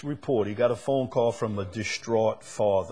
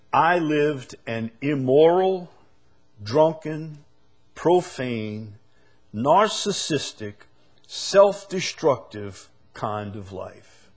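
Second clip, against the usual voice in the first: quoted confession; 4 semitones higher, 5 dB louder, slower than usual. Retold or imitated. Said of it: "He said".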